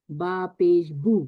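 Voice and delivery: slow drawn बा पेश बू; recitation of damma. Shown as a demonstration. Teacher models बा पेश बू, slow and deliberate. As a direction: draw out बू slowly. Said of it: "इस फर्क को समझिए".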